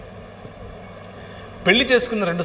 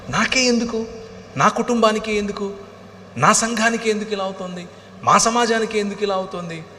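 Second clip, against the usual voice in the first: preaching cry; 5 semitones higher than usual. Shown as a demonstration. Preacher voices the why-me cry.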